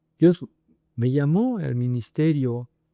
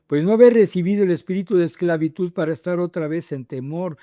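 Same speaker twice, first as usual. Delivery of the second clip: slightly raised, declaimed Bible reading; scripture reading; 5 semitones higher, 3 dB louder than usual. Acted. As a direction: read the verses out to the congregation. Reads scripture aloud. (lectura bíblica declamada)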